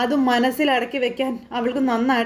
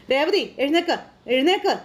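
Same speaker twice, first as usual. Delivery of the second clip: insistent, higher-pitched coaxing; urging call; 4 semitones higher than usual. Acted. Husband telling his crying wife to get up, insistent. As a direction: urge her up with lifted pitch.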